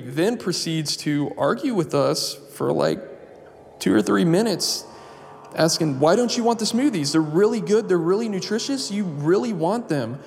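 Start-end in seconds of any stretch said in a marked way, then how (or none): 6.0-10.2 high, sing-song coaxing; lightly mocking pushy hostess; pushy saleslady. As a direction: sell the smoothies sweetly. Lady pushing smoothies.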